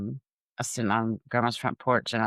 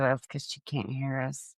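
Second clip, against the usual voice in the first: softer sly murmur to an ally; sly aside; 5 dB quieter than usual. Retold or imitated. Grandchild to grandpa about grandma, quiet sly aside. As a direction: drop it softly, as a retold aside.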